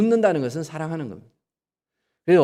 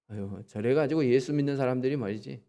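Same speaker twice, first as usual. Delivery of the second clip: disapproving outsider; 3 semitones lower, 7 dB quieter than usual. Retold or imitated. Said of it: "이렇게 얘기해요".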